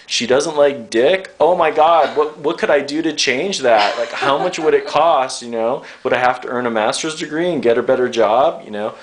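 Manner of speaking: lightly voiced dismayed male client; mock despair, pleading for a way in; exasperated guy. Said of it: "guys, like".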